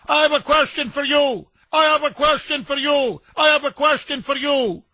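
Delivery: imitating a protester yelling his question; mock shouting. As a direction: hammer the question like a heckler. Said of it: "shouting, yelling, screaming".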